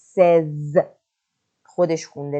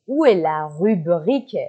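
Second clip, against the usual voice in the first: slow; 3 dB louder, much slower than usual. Shown as a demonstration. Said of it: "ستون اکونومی".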